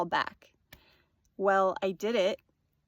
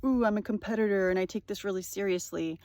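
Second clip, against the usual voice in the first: fast, snooty parody of a serious competitor; fast mocking try-hard voice; faster than usual. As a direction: sneer at her self-importance. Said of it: "she's very, like".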